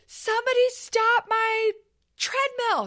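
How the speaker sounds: high, slow panicked cry for help; friend's panicked yell. Retold or imitated. Fallen friend begging the gym to stop her treadmill, high panicked. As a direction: squeal it like you just fell. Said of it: "She yells".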